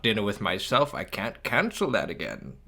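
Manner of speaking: a hint of the movie grouch's voice; Grinch impression. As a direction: lightly imitate a self-pitying grump reading his schedule. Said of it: "trying to do the impressions".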